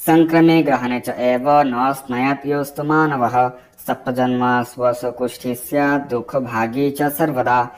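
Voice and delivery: slow, measured scriptural recitation; Sanskrit verse recitation. Acted. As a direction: recite the shloka slowly and evenly.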